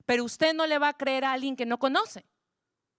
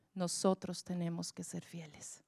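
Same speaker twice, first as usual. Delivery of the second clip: whisper; 5 semitones lower, 9 dB quieter than usual. Acted. Preacher whispering the key point to the congregation.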